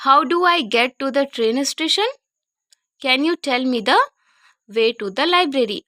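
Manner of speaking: slow, loud, clear drill; slow practice read. Shown as a demonstration. Teacher drilling travel questions, slow and loud. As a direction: drill each sentence slowly. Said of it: "जिस तरह से मैं बोल रही हूँ".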